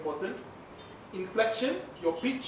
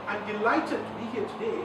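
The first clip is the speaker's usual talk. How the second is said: livelier, quicker delivery; sped up, happy. Shown as a demonstration. Trainer showing how speed sounds happy, sped up and upbeat. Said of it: "you speed it up".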